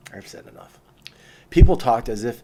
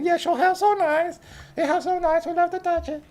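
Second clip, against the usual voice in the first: high mock Asian accent imitating admiring girls. Tourist girls gushing over his hair in a mock Asian accent. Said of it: "they all had that accent".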